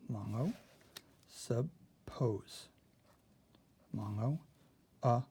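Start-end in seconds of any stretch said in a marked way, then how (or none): 1.3-2.7 whisper. Shown as a demonstration.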